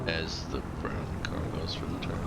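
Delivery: whispered commentary. Pretend. Whispered mock race commentary.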